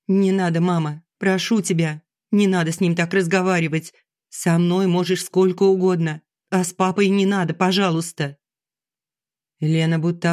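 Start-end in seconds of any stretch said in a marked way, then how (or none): 0.1-8.4 desperate tearful plea. Acted. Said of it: "её отчаянный заплаканный голос".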